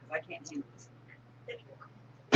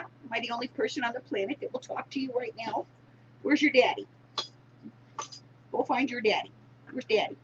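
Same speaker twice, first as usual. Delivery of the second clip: talking to the dog; 5 semitones higher, 3 dB quieter than usual. Real, not acted.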